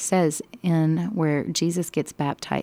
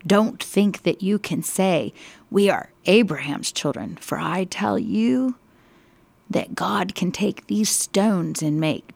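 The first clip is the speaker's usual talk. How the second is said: shouting; 2 semitones higher than usual. Acted. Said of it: "he's just shouting at them".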